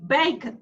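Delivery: bacon with a tiny, weak second vowel; BAY strong, then a swallowed c'n in bacon; schwa, barely open. Shown as a demonstration. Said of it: "you almost don't open".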